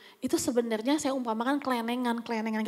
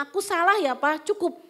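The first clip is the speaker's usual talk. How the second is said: higher, curt mock concession; insincere apology; 5 semitones higher, 3 dB louder than usual. Wife cutting off her husband, insincere apology. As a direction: apologise only to end it. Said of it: "Saya nggak tulus minta maafnya".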